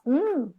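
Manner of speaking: "Hum" hummed with an upward swell; question intonation. Shown as a demonstration. Teacher showing question melody on "Hum", pitch arched up. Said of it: "aquele, aquela entonação".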